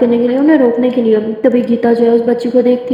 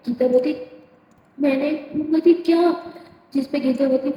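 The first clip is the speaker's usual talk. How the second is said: softer, hushed back-and-forth; hushed talk; 7 dB quieter than usual. Acted. Hiding in room, hushed talk.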